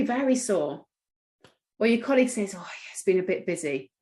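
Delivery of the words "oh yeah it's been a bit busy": weary, worn-out tone; tired voice. Shown as a demonstration. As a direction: sound worn out. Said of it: "they look tired and worn out".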